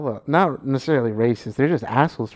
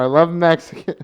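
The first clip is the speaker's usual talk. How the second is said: mock clip line; 4 semitones higher, 5 dB louder than usual. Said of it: "sound clip".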